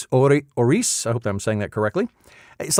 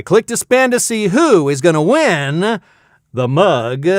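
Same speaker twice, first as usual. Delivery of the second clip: raised, suspense-building announcement; game-show host; 6 semitones higher, 5 dB louder, slower than usual. Pretend. Host clicks the wheel for viewers, announcer style. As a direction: lift the key words to tease the spin.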